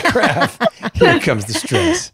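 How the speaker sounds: squeaky high, slow mock dread; cartoonish high-pitched fake alarm; mock panicked voice. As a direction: parrot her panic back in a silly high voice. Friend mocks her quoted reaction.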